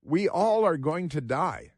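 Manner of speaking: slow, calm, plain statement of fact; matter-of-fact quote. Retold or imitated. Senator telling the heckling crowd, slow and calm. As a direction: state it slowly and calmly. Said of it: "And she said".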